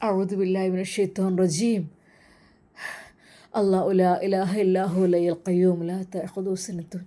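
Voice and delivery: low, even recitation chant; measured prayerful chant; quranic recitation. Acted. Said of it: "ആയത്തുൽ കുർസി ഓതിക്കൊണ്ട്".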